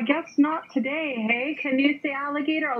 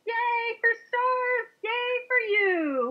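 high cheer; 7 semitones higher than usual. Real, not acted. Celebrating the child.

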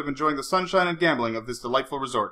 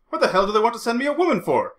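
bitter, higher outburst; 9 semitones higher than usual. A narrator's reading. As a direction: spit out the complaint bitterly. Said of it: "he said bitterly".

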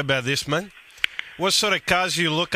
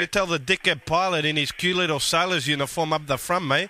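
Guido prank character. Acted.

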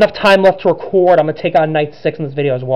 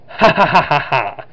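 put-on villain laugh; evil laugh. Luigi mocks Richard in a cutscene, put-on evil laugh. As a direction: laugh a lightly acted evil "ha ha ha". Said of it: "make it sound like Luigi had an evil".

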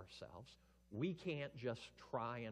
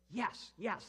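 high, loud, eager yes; excited yes; 11 semitones higher, 9 dB louder than usual. Acted. Son and Spirit cheering the Father's plan, excited high yes. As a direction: squeal it out with joy. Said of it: "the Son and the Spirit are so excited".

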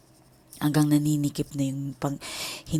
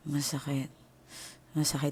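weak moan; 8 dB quieter than usual. Retold or imitated. Retold weak plea of pain.

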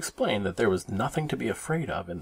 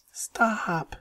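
high, stretched-out "stop"; little sister begging for an end to it; high-pitched drawn-out protest; 12 semitones higher than usual. A narrator's reading. Sister protests the scary wailing.

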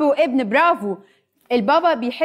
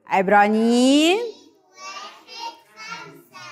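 slow recitation; 4 semitones higher, much slower than usual. Shown as a demonstration. Leading children in slow group recitation.

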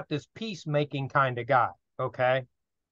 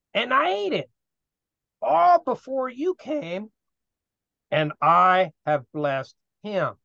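put-on shaken old father; 2 semitones higher than usual. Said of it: "And he says".

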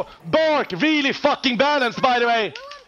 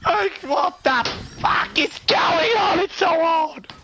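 higher, exasperated yell; frustrated shout; 5 semitones higher than usual. Real, not acted. Streamer yells at the chaotic fight, higher exasperated. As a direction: let the game's chaos out.

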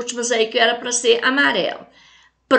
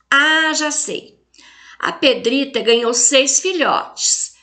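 reading a letter aloud; 2 semitones higher than usual. Acted. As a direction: read the child's letter with lively storybook expression. Reads the letter from the book aloud. (lendo a carta da menina para a vovó com voz de leitura animada)

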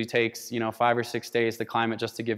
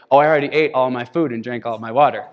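laughing; 6 dB louder than usual. Retold or imitated. Guide's sheepish confession, retold.

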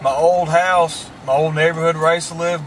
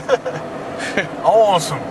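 country hick voice; 3 semitones higher, much slower than usual. Retold or imitated. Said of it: "He's like".

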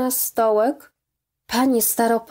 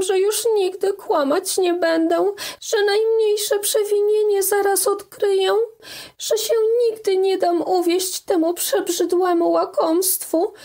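put-on pleading young girl; 9 semitones higher than usual. A narrator's reading. Daughter begging her mother's forgiveness, tearful high plea. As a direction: beg with everything you have.

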